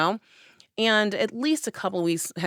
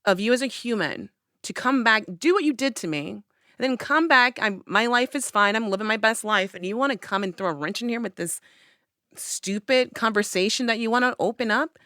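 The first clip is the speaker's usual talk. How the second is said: angry rant; 4 semitones higher than usual. Retold or imitated. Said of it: "I was so angry".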